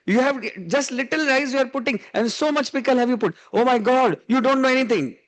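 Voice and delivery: a hint of a fussy mother-in-law telling off her daughter; scolding mother-in-law. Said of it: "She calls out the name of her daughter and says".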